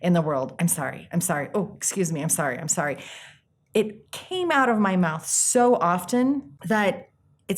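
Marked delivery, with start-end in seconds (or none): 0.6-3.0 reflexive apologizing. Retold or imitated. Apologizing for taking up space in the world, reflexive mock apology. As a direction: toss off automatic little sorries, mock-apologetic. Acting out her constant needless apologies.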